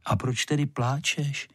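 wondering. A narrator's reading. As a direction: ask it in gentle surprise. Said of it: "divil se vlaštováček".

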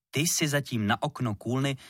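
usual speaking voice

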